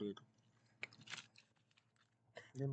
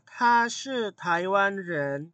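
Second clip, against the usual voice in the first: emphatic model sentence; 7 semitones higher, 7 dB louder, much slower than usual. Shown as a demonstration.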